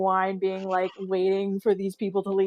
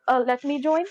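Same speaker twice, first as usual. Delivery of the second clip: "join" lifted into a question; tentative request ending upward on "join"; questioning tune; 3 semitones higher than usual. Acted. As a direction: make "join" rise uncertainly, as if asking. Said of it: "Question mark?".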